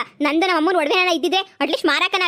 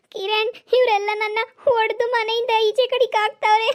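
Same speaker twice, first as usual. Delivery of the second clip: higher, sobbing to Kiran; crying; 4 semitones higher than usual. Acted. Geeta sobs to Kiran that they threw her out, crying. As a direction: break into tears as you complain. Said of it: "ಏಯ್, ನೀನ್ ಅಳ್ಬೇಡ".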